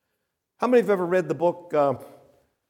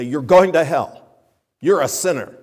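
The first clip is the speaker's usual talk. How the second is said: condemning tone; 7 dB louder than usual. Retold or imitated. Preacher mimicking a condemning caller response, mock harsh. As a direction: bark it like a railing preacher. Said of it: "say it in that tone of voice".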